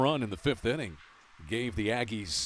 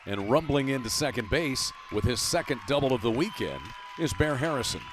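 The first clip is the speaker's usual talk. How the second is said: excited play-by-play; 2 semitones higher, 4 dB louder than usual. Real, not acted. Announcer calls the first base hit of the day, excited play-by-play. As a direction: lively call following the ball to the wall. Live call of a double.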